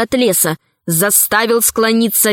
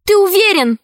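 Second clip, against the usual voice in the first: удивлённо; 9 semitones higher than usual. A narrator's reading. Anxious girl question.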